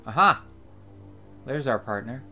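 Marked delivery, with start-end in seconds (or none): 0.0-0.4 excited. Real, not acted. Spots their partner in game.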